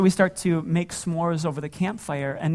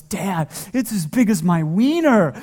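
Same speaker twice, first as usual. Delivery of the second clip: put-on little boy voice; 4 dB louder than usual. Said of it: "he goes".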